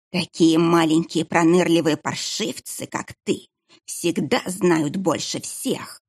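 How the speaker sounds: slow hiss fading to a breathy whisper. Acted. Monk hisses at the sneaky little boy, slow and fading. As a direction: hiss it slowly, dropping away. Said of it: "прошипел монах".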